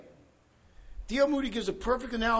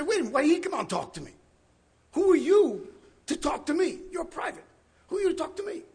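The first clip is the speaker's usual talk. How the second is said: indignant officer; 6 semitones higher, faster than usual. Acted. Senior colonel snapping at the private, indignant and higher. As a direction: demand to know who this nobody is.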